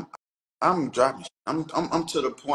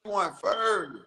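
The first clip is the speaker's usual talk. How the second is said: raised pitch, loud retort; heated accusation; 6 semitones higher, 4 dB louder, slower than usual. Real, not acted. Insisting the other insulted first, heated accusation. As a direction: throw the blame back, high and heated.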